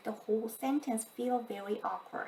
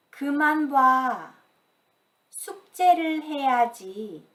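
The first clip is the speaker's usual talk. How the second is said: loud, sharp scold, a bit higher; 4 semitones higher, 7 dB louder, faster than usual. Shown as a demonstration. Mother telling child to stop watching TV, loud scold. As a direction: tell the kid off loudly.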